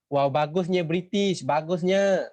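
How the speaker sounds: slow, drawn-out mock praise; sarcastic. Teacher feigning awe at the British helping the people, sarcastic. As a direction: pretend to be impressed, dragging the words. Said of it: "Ni sarkastik".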